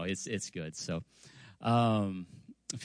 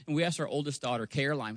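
usual speaking voice

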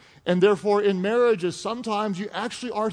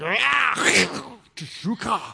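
predator growl; much slower than usual. Pretend. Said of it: "that's what this word is like".

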